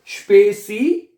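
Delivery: स्पेसी as "shpay-see", last vowel held and rising; building syllables. Shown as a demonstration. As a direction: sound out स्पेसी loudly for a class. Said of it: "लफ्ज को तोड़ लें".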